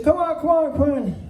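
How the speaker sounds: high-pitched mimicked coaxing; imitated urging. Horse owner urges reluctant rookie on, imitated high-pitched coaxing.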